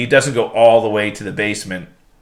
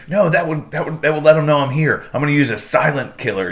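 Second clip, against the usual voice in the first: mock Peacemaker reply; 5 semitones higher than usual. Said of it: "And he's like".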